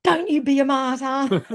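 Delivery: slow, high, hammed-up telling-off; imitating herself losing her temper; mock cranky. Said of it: "then I crack the shits".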